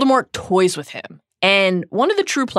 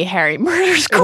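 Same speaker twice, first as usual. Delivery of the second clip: laughing; 10 semitones higher, 4 dB louder than usual. Real, not acted. Joke about the movie.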